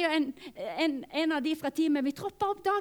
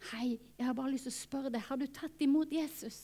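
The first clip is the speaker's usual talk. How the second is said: whisper; 3 semitones lower, 6 dB quieter than usual. Retold or imitated. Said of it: "prøver å viske".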